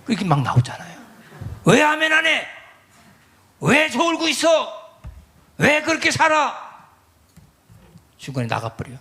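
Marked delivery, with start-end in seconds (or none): 1.7-6.9 high, slow nagging scold; exaggerated high-pitched nagging; mock scolding. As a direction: whine the scolding at the sleepy congregation. Scolding congregation mock quote.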